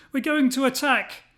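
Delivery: loud rallying bellow. A narrator's reading. Gideon rouses his men for battle, bellowing. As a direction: roar the order to attack. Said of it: "he bellowed at the top of his voice".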